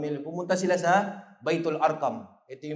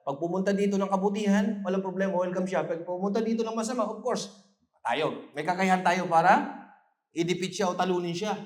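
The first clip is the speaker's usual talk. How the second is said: defiant companions; 7 semitones higher, 4 dB louder than usual. Acted. Companions voiced, defiant warning.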